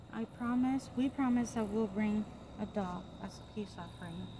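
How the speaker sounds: nervous night vlog whisper. Real, not acted. Coaxing spirits at night.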